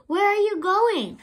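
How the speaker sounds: high, loud anxious question; nervous question. A narrator's reading. Worried brother calling after sister, nervous. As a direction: ask in a panic. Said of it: "Flounder asked nervously".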